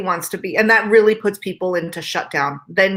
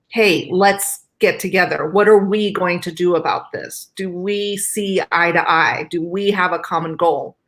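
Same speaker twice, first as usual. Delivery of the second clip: cooperative tone; slower than usual. Retold or imitated. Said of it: "a whole different tone".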